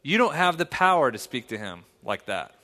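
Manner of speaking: firm father. Retold or imitated. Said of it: "and I literally said this".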